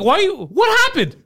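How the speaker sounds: high, incredulous retort; mock bafflement. Man baffled by friend's switch in the store, high mock disbelief. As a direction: act thrown by the sudden change.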